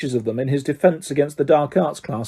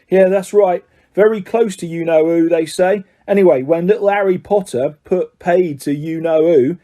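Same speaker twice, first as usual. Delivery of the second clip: louder gossiping Cockney conductor; lightly voiced chatty lad spinning a tale; Stan's voice; 3 semitones higher, 3 dB louder than usual. Stan tells the Black story.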